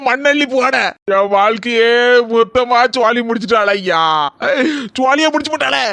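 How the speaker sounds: hammed-up shouted lament; mock wail. Husband lamenting his drowned laptop, mock wailing shout. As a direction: wail it like your life is over.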